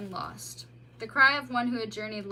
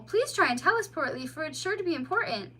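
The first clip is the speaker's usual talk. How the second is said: higher, louder worried voice; concerned mole; 6 semitones higher, 3 dB louder than usual. A narrator's reading. Mole to the bleeding otter, concerned. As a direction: fuss over the wounded child.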